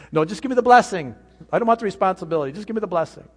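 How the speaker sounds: mock whiny protest. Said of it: "for most people, that'll say".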